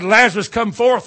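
Lazarus, come forth called out loud and high. Shown as a demonstration. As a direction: summon him from the tomb. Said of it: "he said".

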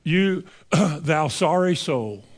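slow, drawn-out reproach with a throat clear; mock-polite reproach. Preacher voicing his first thought about the vet, slow mock-polite reproach. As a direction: put an insult very nicely, taking your time. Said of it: "how can I do this very nice".

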